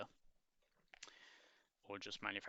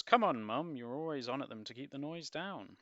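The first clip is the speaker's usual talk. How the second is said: teasing daughter; 5 semitones higher, 10 dB louder than usual. Acted.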